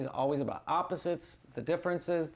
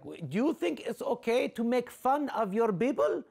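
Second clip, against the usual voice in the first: disapproving elder; 6 semitones higher than usual. Retold or imitated.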